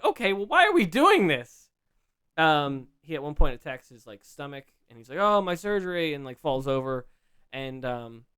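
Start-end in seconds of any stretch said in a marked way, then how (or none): 0.0-1.7 high, loud incredulous question; exasperated protest. Retold or imitated. Fan reacting to a seventy-something man being attacked, exasperated. 5.2-6.1 louder, higher hammed-up complaint of pain; mock pained cry. Injured wrestler falling over after a stomach attack, mock pained.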